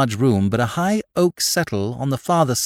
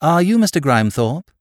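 courteous, higher-pitched question; polite inquiry; 5 semitones higher, 4 dB louder than usual. A narrator's reading. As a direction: ask it like a well-mannered caller. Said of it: "he asked politely".

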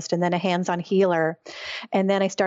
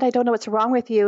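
lively mock doctor voice; a lightly played frank doctor; quoting the neurologist; 4 semitones higher, faster than usual. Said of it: "when he said".

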